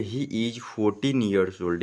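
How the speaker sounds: each word read slowly and clearly; slow dictation pace; slow reading aloud. Shown as a demonstration. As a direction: read the sentence slowly for the class. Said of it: "कैसे पढ़ेंगे".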